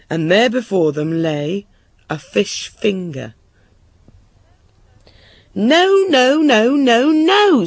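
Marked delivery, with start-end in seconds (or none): 5.6-7.7 high, loud, wailing refusals; frantic high-pitched king's scream. A narrator's reading. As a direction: scream it in mounting royal horror. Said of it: "screamed the king".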